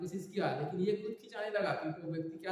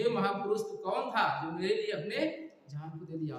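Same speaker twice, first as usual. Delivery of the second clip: louder opening call, easing afterwards; retold loud cry; 2 semitones higher than usual. Rescued man cries to the one who died for him, retold loud cry. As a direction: hail the great man as if crying out to him. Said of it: "जोर से चिल्लाने लगा कि".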